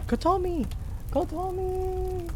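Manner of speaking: desperate scream. Acted. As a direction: call out frantically for a lost friend. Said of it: "screaming relentlessly".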